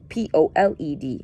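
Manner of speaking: careful spelled-out word; spelling it out. Shown as a demonstration. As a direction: spell out P O L E D letter by letter. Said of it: "not pulled, but poled".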